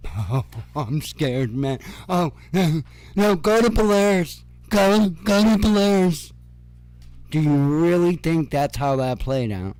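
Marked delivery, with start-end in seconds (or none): 0.1-1.8 slow, softer sarcastic fake fright; mock scared Putin. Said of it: "Putin's gonna be like". 2.1-6.3 mock panic. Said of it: "Putin's gonna be like".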